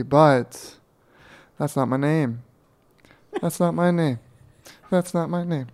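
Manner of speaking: measured, half-serious seductive presenting; a hint of sexy announcer; mock sexy presenter voice. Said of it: "my voice gets really sexy".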